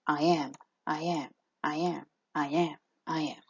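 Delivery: "I am" chanted evenly, weight on each "am"; light "I", stressed "am", small gap between pairs; iambic rhythm. Shown as a demonstration. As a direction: repeat "I am" as a steady light-heavy pulse. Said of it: "good way to remember the word iamb".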